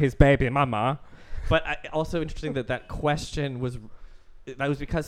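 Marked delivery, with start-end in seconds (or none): 0.0-1.0 Norwegian-LA accent impression; lightly put-on Norwegian accent with LA talk. Shown as a demonstration. Co-host asked for the director's line, Norwegian accent. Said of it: "That's how it was, like".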